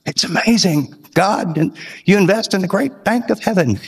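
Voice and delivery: a rough imitation of an elderly man reminiscing; Paul. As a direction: draw the words out like an old man. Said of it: "he was really old".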